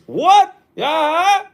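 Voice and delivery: sudden high, loud indignant "What? Yeah"; angry outburst. Retold or imitated. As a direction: blurt it out like an outraged father. Angry father acted.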